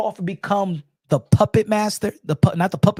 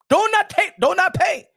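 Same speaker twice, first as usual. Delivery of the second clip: mocking voice; 10 semitones higher, 4 dB louder than usual. Mocking the energy.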